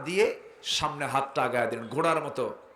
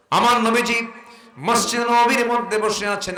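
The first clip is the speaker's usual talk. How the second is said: full force preaching; 9 semitones higher, 8 dB louder than usual. Real, not acted. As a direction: sing it out to the congregation. (উচ্চস্বরে ওয়াজের সুর)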